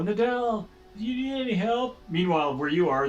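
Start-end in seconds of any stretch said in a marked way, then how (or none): 0.0-2.0 high, quick shout up from below; calling out. Acted. Game master voices friends calling to Nadal upstairs, raised shout. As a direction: call up to someone out of sight. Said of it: "you can just hear voices coming from down below".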